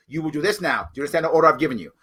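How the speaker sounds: a touch of a commanding sergeant; fast mock order; giving orders. Shown as a demonstration. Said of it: "I will say those words".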